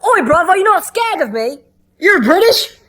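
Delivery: high, loud mock British accent; hammed-up British ghost talking.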